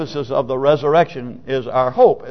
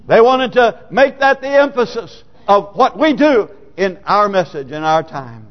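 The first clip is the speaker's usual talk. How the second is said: raised-pitch, driving pulpit delivery; emphatic preaching; 6 semitones higher, 3 dB louder than usual. Acted. Preacher on early believers celebrating resurrection, fervent preaching. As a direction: press the point with fervour.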